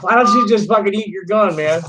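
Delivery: angry retort. Real, not acted. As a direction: snap back at the caller. Yells back at caller.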